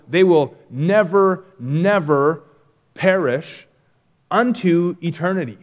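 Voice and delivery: emphatic repeated never; stress on never, never. Shown as a demonstration. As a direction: hammer both nevers. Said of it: "this is a double negative".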